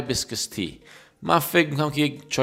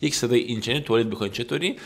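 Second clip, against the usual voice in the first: ordinary talk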